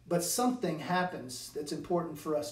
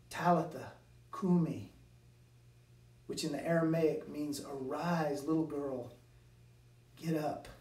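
hushed and gentle, growing softer; very tenderly; 2 semitones lower, 4 dB quieter than usual. Retold or imitated. Jesus to the dead girl, hushed and tender. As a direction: wake a sleeping child gently. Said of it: "he says to her very tenderly".

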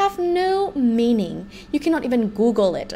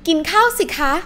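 polite and sweet; 6 semitones higher, much faster than usual. Shown as a demonstration. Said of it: "make the word สิ nice with the polite particle".

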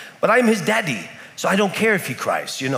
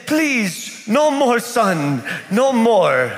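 higher, pleading, hammed-up tired dad; mock exhausted plea; 5 semitones higher, much slower than usual. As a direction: beg for mercy, worn out. Exhausted father begging.

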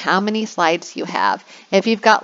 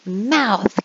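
teacher demo; 2 semitones higher, slower than usual. Shown as a demonstration. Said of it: "I would say".

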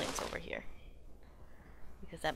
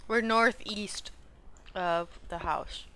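ice in mouth; slower than usual. Real, not acted. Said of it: "I have an ice cube in my mouth".

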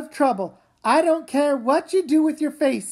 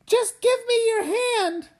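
slow, high tearful pleading; desperate begging; crying plea; 7 semitones higher, much slower than usual. Acted. Daughter pleads, car tipping.

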